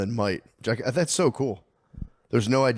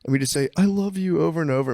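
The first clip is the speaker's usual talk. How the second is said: imitating the teacher; 7 semitones higher than usual. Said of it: "he'd be like".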